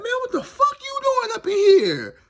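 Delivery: high, loud laughing shout of disbelief. Retold or imitated. Teller to a jailed singer, laughing loud and high. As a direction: crack up while yelling it. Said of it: "Everybody started dying laughing".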